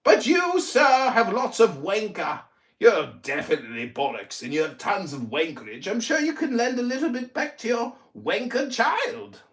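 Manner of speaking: lecturing in a put-on English accent; mock English accent. Roasting Tuna Boy's family, in a fake English accent. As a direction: sermonize with mock posh English scorn. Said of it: "my English accent is so mocking".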